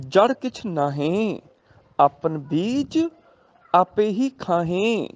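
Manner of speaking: slow, measured verse with long drawn-out endings; scripture recitation. Shown as a demonstration. Teacher reading Gurbani verse to the class, slow recitation. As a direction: recite line by line, pausing after each phrase.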